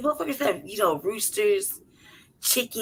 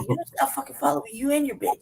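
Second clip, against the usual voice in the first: laughing mock scold; 6 semitones higher, faster than usual. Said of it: "I kept yelling at it like".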